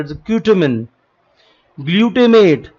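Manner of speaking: glutamine in an American accent; light American accent on glutamine. Shown as a demonstration. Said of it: "American accent में बोला जाए तो".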